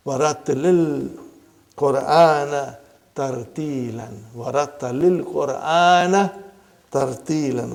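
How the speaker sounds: verse recited with lengthened vowels; Quran recitation. Shown as a demonstration. Teacher presenting a verse to students, measured recitation. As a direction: recite in measured phrases, holding the long syllables.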